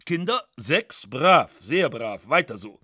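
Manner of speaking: brisk, lightly voiced general praising; a hint of a patronising officer; condescending general. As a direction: pat them on the head like a general. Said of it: "Wie sich beim Militär manchmal der General erkundigte".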